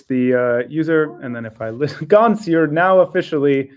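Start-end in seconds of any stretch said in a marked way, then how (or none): 2.1-3.7 talking through laughter; laughing while speaking. Real, not acted. Laughing at demo result.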